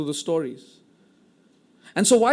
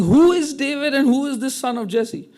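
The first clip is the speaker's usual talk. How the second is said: scornful mock; 6 semitones higher than usual. Nabal's mocking reply to David.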